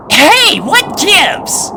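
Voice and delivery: put-on high-pitched boy pony, bossy; young colt voice. A narrator's reading. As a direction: play a cocky young colt. Snips as light fails.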